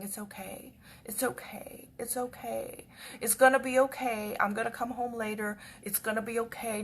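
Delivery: soft, near-whispered reassurance; soothing. Retold or imitated. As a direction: hush a frightened cat gently. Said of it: "I'm talking to her, saying".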